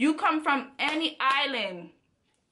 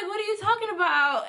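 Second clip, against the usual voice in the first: laughing disbelief; 8 semitones higher, faster than usual. Retold or imitated. Retelling shocked reply, laughing.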